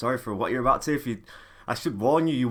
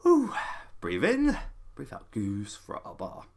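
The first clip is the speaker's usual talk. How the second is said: calming breaths; 6 semitones lower, 6 dB quieter than usual. Real, not acted. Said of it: "I'm trying to hold the rage back".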